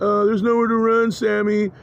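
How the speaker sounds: imitated taunting voices. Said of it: "now they're like".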